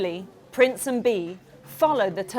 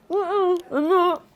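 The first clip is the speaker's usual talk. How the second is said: defensive denial; 8 semitones higher, 4 dB louder than usual. Acted. Artie denies eating sand.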